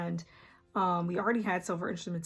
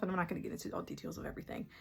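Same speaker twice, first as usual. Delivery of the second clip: quick muttered aside; 6 dB quieter, much faster than usual. Real, not acted. Skipping the details, as an aside.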